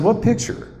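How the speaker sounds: high, surprised what picture; surprised question. Retold or imitated. Host retelling his surprise at the purse photo, high pitched. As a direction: ask it as if caught off guard. Retold surprise at mom's news.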